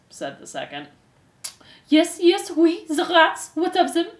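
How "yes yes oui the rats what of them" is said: high, loud melodramatic mother; distraught impatience. A narrator's reading. Antoinette pressing the hoods, distraught.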